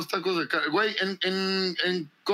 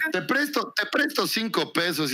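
Yucatecan tune; 4 semitones higher than usual. Retold or imitated. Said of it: "los yucas dicen pendejadas como".

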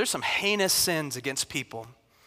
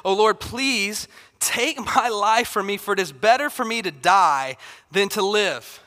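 loud, drawn-out mock plea to God; melodramatic plea; 3 semitones higher, 4 dB louder, slower than usual. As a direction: plead like an overdramatic prophet. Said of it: "the most melodramatic dude of all scripture".

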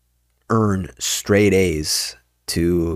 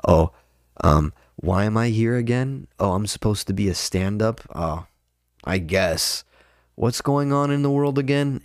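mock aloof comic; 2 semitones higher, 4 dB quieter than usual. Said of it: "act like they're way above it".

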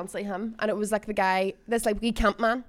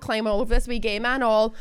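ordinary talk

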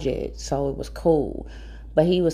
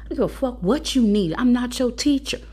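higher-pitched irritated scolding; imitated cussing out; 8 semitones higher than usual. Mom refusing to help her son, imitated higher-pitched scolding. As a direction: tear into him as an angry mom would. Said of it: "getting his ass tore up and cussed out".

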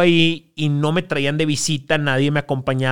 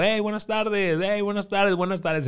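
soft, higher, sheepish hellos; quiet awkward greeting; 5 semitones higher, 7 dB quieter than usual. Retold or imitated. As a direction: greet softly like an outsider. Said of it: "y yo". (saludo tímido y bajito)

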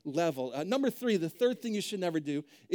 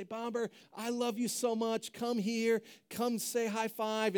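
affectionate dog talk; 3 semitones higher than usual. Shown as a demonstration. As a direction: coax the dog over lovingly. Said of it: "always responds to the tone of voice".

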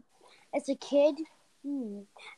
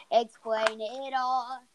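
slow stretched words; 4 dB louder, much slower than usual. Shown as a demonstration. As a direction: Explain it all drawn out slowly.

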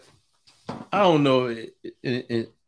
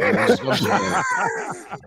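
laughing. Real, not acted. Laughing outburst at the joke.

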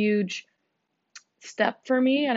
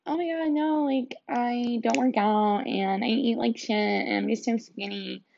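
mocking skinny girl; 2 semitones higher than usual. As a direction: parody someone bragging they never work out. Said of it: "I hate when people are like".

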